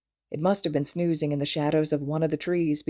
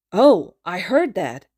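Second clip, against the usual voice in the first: perky; 3 semitones higher, 8 dB louder, slower than usual. A narrator's reading. Inaba perks up.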